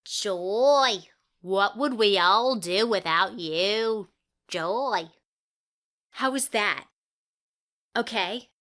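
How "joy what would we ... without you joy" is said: slow, louder Southern drawl on the line; Southern accent. Acted. Auditioning actress tries the line in a Southern accent, lightly. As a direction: give it a Southern twang.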